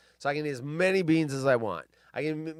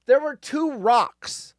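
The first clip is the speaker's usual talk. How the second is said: indignant; 8 semitones higher, 5 dB louder, slower than usual. Real, not acted. Outraged beans story.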